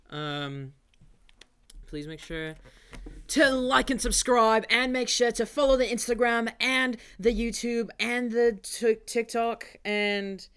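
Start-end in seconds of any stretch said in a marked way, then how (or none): 3.3-10.5 loud, higher Australian announcer voice; Australian accent. Acted. Podcast host asks listeners to subscribe, Australian accent. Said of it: "why'd you become Australian".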